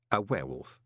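flat, low disbelief; unimpressed, falling tone. Acted. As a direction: echo it deadpan. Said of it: "said Moist flatly".

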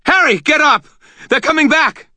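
high frantic shouting; panicked pleading. A narrator's reading. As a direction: urge him up in terror. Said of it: "Butters screamed".

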